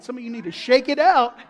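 building to a loud finish; rally them, punching the last words; rousing exhortation. Real, not acted. Preacher urging congregation to loosen up, rousing loud call.

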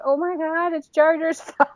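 high, giggly disbelief; laughing retold outburst. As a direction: retell it cracking up into a laugh. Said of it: "I was laughing so hard".

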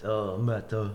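imitated French chef's accent; south of France accent. French chef calls his cook into the office, imitated French accent. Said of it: "he talks like that 'cause he's from the south of France".

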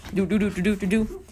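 light "doo-doo" riding ditty; little scooter travelling sound; scooting noise. Retold or imitated. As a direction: hum along as if scooting by. Imitating a scooter ride.

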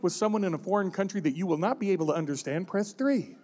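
lightly voiced recorded phone menu, quick; automated phone menu. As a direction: rattle it off like a hold message. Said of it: "automated voice say".

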